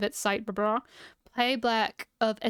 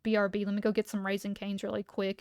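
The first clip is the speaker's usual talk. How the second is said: whispered God line, casual; breathy unvoiced whisper for a joke. Imagining God stepping out for food, in a whisper.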